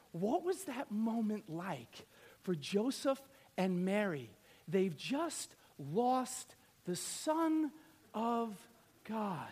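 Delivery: slow, soft and low; quiet, weighty storytelling; hushed suspense. Real, not acted. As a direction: draw it out with grave pauses. Dramatizes parents losing Jesus.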